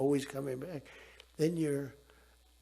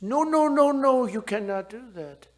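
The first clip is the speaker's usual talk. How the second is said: much higher, loud imitated protest; mock panicked shout; 9 semitones higher, 10 dB louder than usual. Macron panicking at the tariff threat, higher and louder. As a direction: throw up a frantic refusal.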